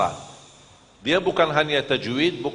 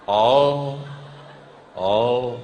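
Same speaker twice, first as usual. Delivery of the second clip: normal talking voice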